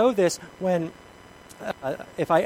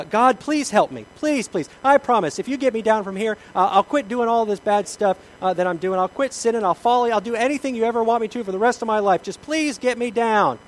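pleading; 6 semitones higher, 4 dB louder than usual. Acted. Jack bargaining with God.

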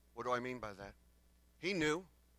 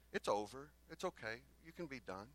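softer, soothing reassurance fading away; gentle letting-off; 7 dB quieter than usual. Acted. Well-meaning Christians saying you can stop, gently reassuring. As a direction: ease them kindly into giving up.

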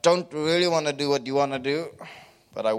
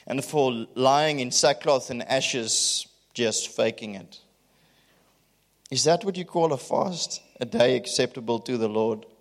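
emphatic scripture reading. Acted. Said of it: "I'm gonna read it with emphasis".

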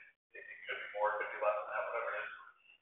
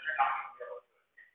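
small inner voice; 3 semitones lower, 8 dB quieter than usual. Retold or imitated. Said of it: "that still small voice in the back of my head says".

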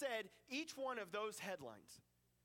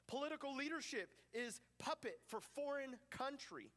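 headline reading. Acted. Preacher reads listeners the day's headlines, measured headline delivery. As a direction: read out each headline deliberately, spaced with pauses. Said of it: "These are some of the headlines".

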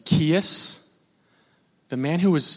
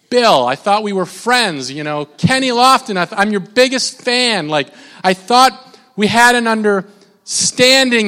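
a touch of wounded fan, slow and higher; mock hurt fan; 4 semitones higher than usual. Fan complaining to celebrity, mildly hammed hurt. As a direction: play the betrayed biggest fan.

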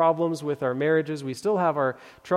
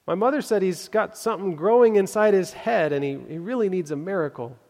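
put-on little girl; 5 semitones higher, 5 dB louder than usual. Girl explains brother's illness.

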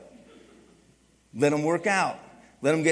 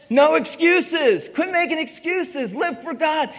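No excuses shouted slow and loud, higher; motto shouted; 9 semitones higher, 6 dB louder, slower than usual. Shown as a demonstration. Pastor shouting the team motto, loud and slow. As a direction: bark the motto out slowly. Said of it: "You know our motto".

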